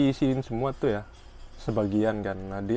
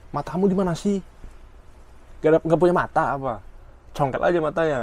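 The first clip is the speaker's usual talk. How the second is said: higher, louder mock-furious rant; soap-opera anger; 5 semitones higher, 3 dB louder than usual. Coworker berates the narrator like a soap opera villain, hammed-up anger. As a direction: play a melodramatic soap villain shouting. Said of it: "bahasa-bahasa kayak mirip di sinetron".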